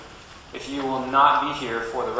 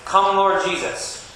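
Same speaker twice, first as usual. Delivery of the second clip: slow, raised call-out; loud call to response; 4 semitones higher, slower than usual. Shown as a demonstration. Minister shows children how to say their refrain, loudly. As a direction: project it slowly for others to echo. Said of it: "you have to say it loudly".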